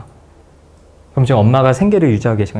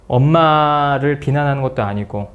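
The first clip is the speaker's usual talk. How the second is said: "엄마를 비난하는 것도 아니고" said slowly, word by word; gentle slow reassurance to mom; slow, careful phrasing; 2 semitones higher, slower than usual. Shown as a demonstration. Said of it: "그래서 얘기를 해라".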